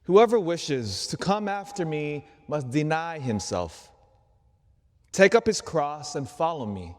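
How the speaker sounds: measured liturgical reading voice; gospel reading. Acted. Priest reading the gospel to the congregation, solemn proclamation.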